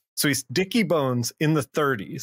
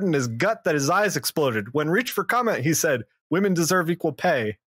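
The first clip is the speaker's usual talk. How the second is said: higher, punchy newsreel announcer; old-timey radio voice; 5 semitones higher than usual. Pretend. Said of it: "Imagine it in old-timey radio voice".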